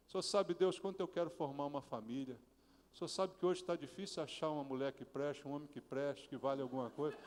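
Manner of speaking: soft, low, earnest prayer voice; hushed personal prayer; intimate prayer. Shown as a demonstration. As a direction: pray it quietly as if alone with God. Models a heartfelt prayer.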